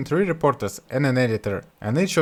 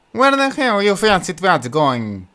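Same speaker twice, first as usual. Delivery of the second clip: rough, slow, higher mocking yokel voice; Butthead voice; 6 semitones higher, 5 dB louder, slower than usual. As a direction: sneer it like the village fool. Butthead mocks his brothers.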